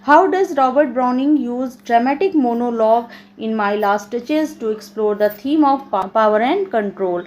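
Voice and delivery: slow read-out of an exam question; measured classroom reading; reading aloud. Acted. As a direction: read the question out slowly, phrase by phrase.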